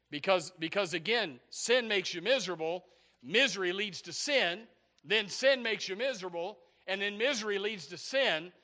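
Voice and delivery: insistent sermon cadence; emphatic preaching. Real, not acted. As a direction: drive the point home like a preacher.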